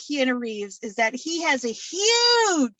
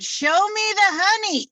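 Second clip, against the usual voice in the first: Winnie the Pooh; 4 semitones higher, 4 dB louder, slower than usual. Retold or imitated. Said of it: "and then he said".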